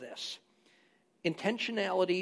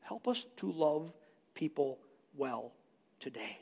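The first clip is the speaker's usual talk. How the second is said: slow, soft, lowering prayer; 3 semitones lower, 8 dB quieter than usual. Retold or imitated. Churchgoer asking God for help each week, prayerful. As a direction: pray it softly, word by word. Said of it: "we pray and we ask God".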